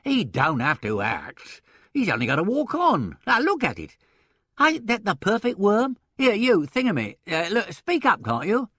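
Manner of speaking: high, loud blustering outburst; explosive. A narrator's reading. Impresario showing off newcomer to partner, explosive. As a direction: bluster to prove your point. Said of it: "exploded Mister Sullivan".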